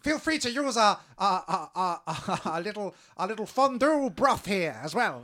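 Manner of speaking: high, loud awed creature voice; groveling creature. Acted. Fish creature groveling to the player's fake god, high and awed.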